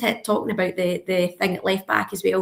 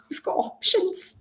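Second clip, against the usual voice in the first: laughing through the words, higher and slow; delighted laughing; 10 semitones higher, 3 dB quieter, slower than usual. Real, not acted. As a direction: let a real laugh break into it. Delighted laugh at having options.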